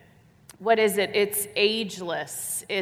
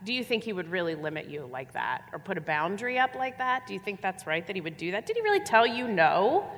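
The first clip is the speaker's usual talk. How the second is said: 1 tempting serpent. Acted. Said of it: "serpent questions continued".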